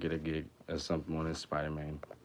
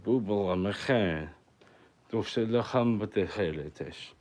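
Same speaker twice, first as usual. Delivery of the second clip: mock Hebrew; 2 semitones higher than usual. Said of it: "I thought that shit was in Hebrew".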